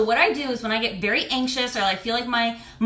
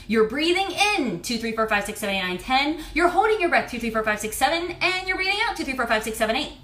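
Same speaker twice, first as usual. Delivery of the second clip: calm self-talk counting; faster than usual. Shown as a demonstration. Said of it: "I tell myself".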